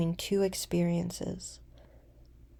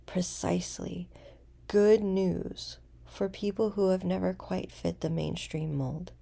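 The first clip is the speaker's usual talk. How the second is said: unhurried meditation voice with long pauses; guided meditation; 4 dB quieter than usual. Acted.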